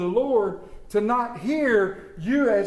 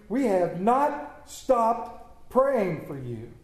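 measured, reverent reading of scripture; 3 semitones lower than usual. Acted. Pastor reads the letter to the congregation, reverent reading.

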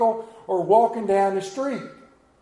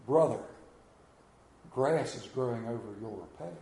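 softer, gentle brotherly nudge; softer, lower, a gentle word to a straying brother; kind reminder; 7 semitones lower, 6 dB quieter than usual. Retold or imitated. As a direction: remind him kindly, not scolding. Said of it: "would kindly remind".

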